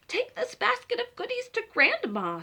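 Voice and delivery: high, bright mother voice. Acted. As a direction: send her off cheerfully. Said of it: "said Little Red Riding Hood's mother".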